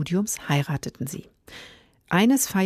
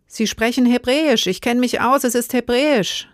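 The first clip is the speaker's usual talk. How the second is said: high, louder shrill insisting; 6 semitones higher, 3 dB louder than usual. Acted. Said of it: "mit schriller Stimme".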